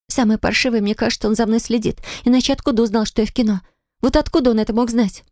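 put-on a young woman venting her fear and anger; young heroine upset.

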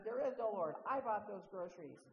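loud, triumphant shout; angry shout. Retold or imitated. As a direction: bellow it over the hedge in gotcha glee. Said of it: "and shouted".

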